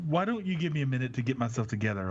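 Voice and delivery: flat, uninterested line read; a bit quick and flat; disinterested. Acted. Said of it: "Why do you sound like a, a disinterested hooker?".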